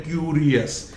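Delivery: क्यूरियस ending in a y-glide yes; common mispronunciation. Retold or imitated. Teacher imitates what most people say, wrong pronunciation. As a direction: say क्यूरियस as kyoo-ree-YES. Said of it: "अधिकांश लोग इसे बोलते हैं".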